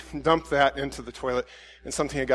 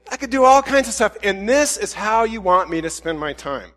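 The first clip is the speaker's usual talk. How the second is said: exasperated, raised-pitch listing of grievances; mad at God; 4 semitones higher than usual. Retold or imitated. Preacher retelling complaint to God, exasperated. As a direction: argue your case indignantly. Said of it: "It's kinda mad at God".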